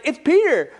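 high, loud gasp of joy; excited announcement. Retold or imitated. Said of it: "so excited".

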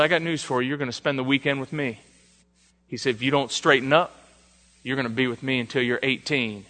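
low, quiet sergeant's warning; lightly voiced sergeant laying down the law softly; hushed, retold drill sergeant. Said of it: "Drill Sergeant Moses".

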